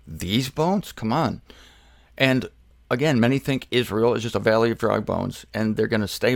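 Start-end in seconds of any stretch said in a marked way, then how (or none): 0.1-0.9 "These" leaned on, rising questioningly; stress on THESE. Shown as a demonstration. Preacher doubting the dry bones can live, stress on "These". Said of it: "You can emphasize the these".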